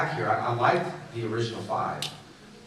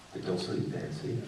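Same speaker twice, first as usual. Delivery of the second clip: whispered tease; 7 dB quieter than usual. Real, not acted. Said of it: "teasing sleeping friend".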